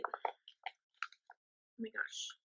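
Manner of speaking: breathless, drawn-out whispered oh my gosh; stunned whisper. Real, not acted. Friend opening a gift from Zoe, stunned slow whisper. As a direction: barely get the words out, overwhelmed.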